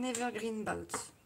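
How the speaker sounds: a jokey attempt at an English accent on evergreen; mock English accent. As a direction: say evergreen bout with a playful, half-hearted English accent. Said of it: "j'ai un super accent anglais".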